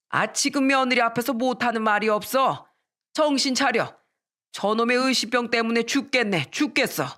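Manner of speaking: fed-up husband, slightly hammed-up; exasperated scolding. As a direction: scold back in an acted quarrel. Acted quarrel, husband scolds.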